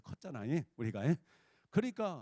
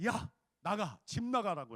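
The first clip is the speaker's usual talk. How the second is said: raised, louder ordering-out; angry husband; 4 semitones higher, 5 dB louder than usual. Retold or imitated. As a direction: imitate a husband throwing his wife out. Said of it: "하는 거야".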